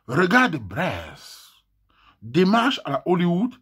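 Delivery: very slow grand reading voice; pompous poetry reading, drawn out; important voice. Shown as a demonstration. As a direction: read it slowly as if it mattered. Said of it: "une voix, importante".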